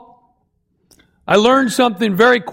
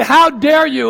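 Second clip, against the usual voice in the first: angry challenge; 4 semitones higher, slower than usual. Retold or imitated. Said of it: "He's shaking his fist at God".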